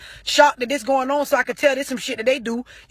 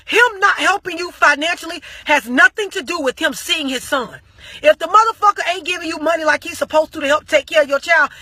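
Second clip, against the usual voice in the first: retold cussing out; 2 semitones higher than usual. Fed-up friend scolding the arguing parents, heated and raised. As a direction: scold both of them like you've lost it. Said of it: "I blacked out and cussed them both the fuck out".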